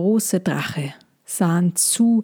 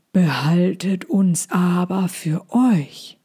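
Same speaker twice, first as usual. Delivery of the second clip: slow, hushed big dragon; slower than usual. Acted. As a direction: speak like a slow, gentle giant dragon. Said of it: "sagte der große Drache langsam". (langsame Drachenstimme)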